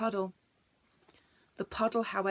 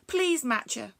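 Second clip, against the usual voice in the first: mild begging; 3 semitones higher, 3 dB louder than usual. Acted. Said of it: "begged Bronglae".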